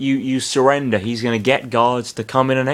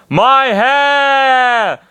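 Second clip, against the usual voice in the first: high, louder panicked cry; scream; 13 semitones higher, 5 dB louder than usual. Acted. Bernard sees his hair on fire, screaming. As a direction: shriek as his hair burns. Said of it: "he screamed".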